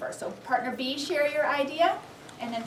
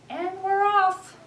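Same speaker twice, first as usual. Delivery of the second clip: dramatic start; 8 semitones higher, 3 dB louder, slower than usual. A narrator's reading. Dramatic narration of transformation.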